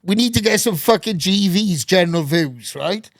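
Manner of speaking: lightly put-on London accent, hailing the lads; mimicking the London director rounding up the crew. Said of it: "proper, like, London type like this".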